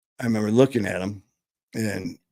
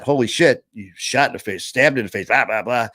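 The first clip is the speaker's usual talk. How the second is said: louder, mildly acted shock; mock alarm; 5 dB louder than usual. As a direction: imitate an alarmed reaction, punching it louder. Mock alarm at his own injuries.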